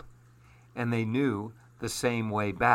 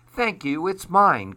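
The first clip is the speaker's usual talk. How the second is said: high, lightly voiced duck; quick claim in a raised duck voice; quacking duck; 7 semitones higher, 4 dB louder than usual. A narrator's reading. Duck answers the bluebird's praise, lightly quacking. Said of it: "quacked Duck".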